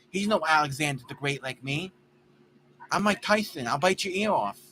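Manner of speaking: mild playful Tyson send-up; Mike Tyson impression. Mocking Mike Tyson's voice for friends, light impression. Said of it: "He talks like this".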